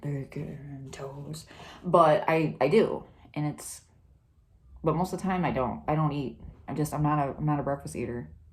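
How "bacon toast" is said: very quiet, hushed trailer-park guy voice. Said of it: "I sound like Bowles from Trailer Park Boys".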